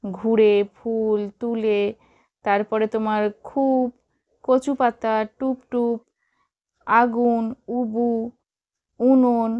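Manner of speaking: each word said apart, leaning on the উ in ঘুরে, ফুল, তুলে; stressed u sounds. Shown as a demonstration. Teacher picking out u-vowel words for pupils, each one stressed. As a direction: mark every u-vowel word with a firm push. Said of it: "হর্ষ উকার শব্দের ওপরে কিন্তু বেশি জোর দেওয়া হয়েছে".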